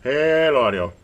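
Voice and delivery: loud, drawn-out radio test call; calling out to check the transmit audio; mic check call. Real, not acted.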